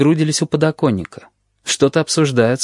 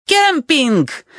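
very high shrill exclamation; Tabaki yelling; 14 semitones higher than usual. A narrator's reading. Tabaki yells from the window grille, very high. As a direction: crow it out like the jackal. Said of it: "орёт Табаки".

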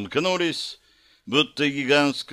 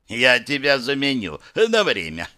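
giggling. Acted. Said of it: "хихикнул Вахирас".

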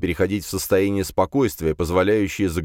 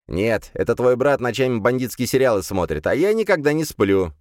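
smug demon voice; 4 semitones higher than usual. Acted. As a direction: tease with smug pride. Demon jokes about brother.

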